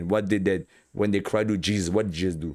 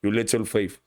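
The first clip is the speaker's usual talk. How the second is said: shocked Jesus. Retold or imitated. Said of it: "he's shocked".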